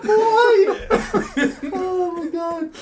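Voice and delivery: snotty crying. Acted. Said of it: "you actually crying?".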